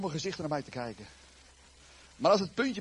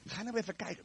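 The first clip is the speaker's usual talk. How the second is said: softer plea to a stubborn friend; gentle coaxing; 4 semitones higher, 8 dB quieter than usual. Acted. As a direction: coax him patiently. John coaxing Peter to look.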